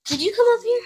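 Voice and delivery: loud high call. Real, not acted. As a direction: call the dog from across the house. Calling the dog upstairs.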